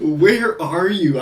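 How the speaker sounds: high, slow imitation of an Ohio accent; Alonzo's thick Ohio accent. Commentator echoing the clip he loves, thick Ohio accent. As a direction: drag the words out in a mock Ohio accent. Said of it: "Some sort of Ohio accent".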